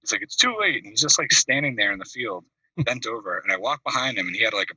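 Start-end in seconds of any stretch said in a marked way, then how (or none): 0.2-0.8 high whiny doom; mock despair. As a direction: wail it like all hope is gone. Friend repeats doom, voiced high.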